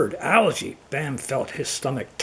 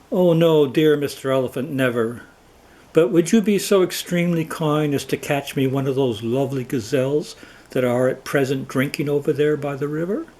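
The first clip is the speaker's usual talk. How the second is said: humble. Acted. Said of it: "spoke more humbly".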